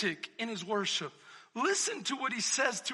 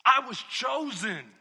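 loud, firm declaration; confident David; 10 dB louder than usual. Retold or imitated. Preacher voicing David's confidence, loud. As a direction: declare it boldly. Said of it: "David says".

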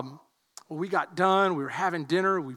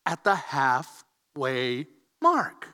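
slow dramatic reveal; 8 semitones lower, much slower than usual. Acted.

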